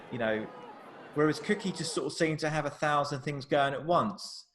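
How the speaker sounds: ordinary delivery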